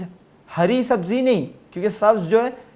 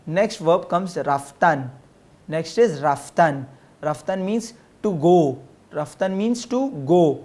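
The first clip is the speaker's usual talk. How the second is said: slow teaching; slower than usual. Shown as a demonstration. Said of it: "teacher slowly models new verb".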